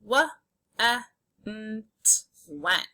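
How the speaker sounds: "W, e, n, t" as isolated sounds, then "went" whole; sounded out, blended. Shown as a demonstration. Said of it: "a word we can sound out".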